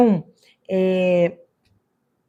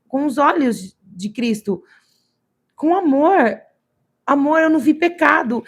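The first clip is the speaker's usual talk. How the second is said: moved exclamation; 4 semitones higher, slower than usual. Retold or imitated. Believer retelling her prayer to viewers, moved and higher. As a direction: relive the moment of being moved. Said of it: "E eu fiquei emocionada".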